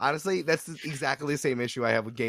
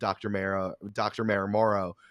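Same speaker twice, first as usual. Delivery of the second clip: ordinary talk, nothing marked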